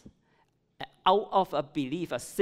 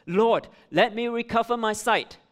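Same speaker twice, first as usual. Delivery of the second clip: pleading; 6 semitones higher, 7 dB louder than usual. Acted. Blind man begs Jesus.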